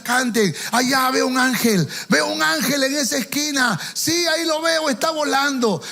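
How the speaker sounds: imitando a un predicador que anuncia visiones, tono más alto; predicador manipulador. Retold or imitated. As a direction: remedo agudo de predicador visionario. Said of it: "para sugestionar a la gente, para manipularla. Y, y, decía". (predicador que sugestiona al público)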